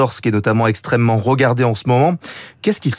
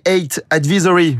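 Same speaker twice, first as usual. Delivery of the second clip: English accent; 4 semitones higher than usual. Real, not acted. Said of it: "Vous voyez mon accent anglais?".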